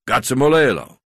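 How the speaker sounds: loud, high bellow across the yard; a full-throated call over the braai. A narrator's reading. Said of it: "Dan bellowed".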